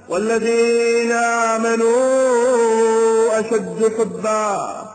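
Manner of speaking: slow chanted Quran recitation, each word drawn out; slow melodic tajweed chant. Acted. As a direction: chant the verse slowly like a reciter in prayer.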